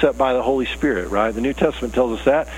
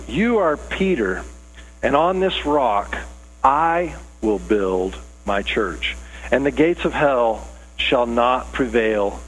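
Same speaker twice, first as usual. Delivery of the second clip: solemn Jesus; 4 semitones lower, slower than usual. Acted. Jesus proclaiming to Peter.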